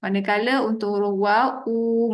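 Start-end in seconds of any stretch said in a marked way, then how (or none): 1.7-2.1 "u" held long with lips pushed forward; a drawn-out, lip-rounded "u". Shown as a demonstration. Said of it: "munculkan bibir".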